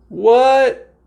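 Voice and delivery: sudden high startled yelp; a sharp, high "What?" of real surprise. Real, not acted. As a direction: caught off guard by the camera. Camera glitch startles her.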